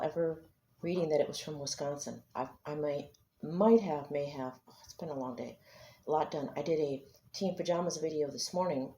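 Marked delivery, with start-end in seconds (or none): 4.7-5.6 weary sigh of a long day; worn out, soft; tired but firm. Real, not acted. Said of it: "I'm tired".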